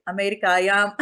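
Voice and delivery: Amerika stretched into Sanskrit, Amerikayam; playful Sanskrit priest accent; mock Sanskrit accent. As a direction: chant the word like a Sanskrit priest, half laughing. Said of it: "say it with nice Sanskrit accent".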